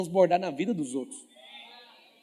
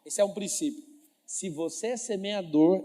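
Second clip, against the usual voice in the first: normal talking voice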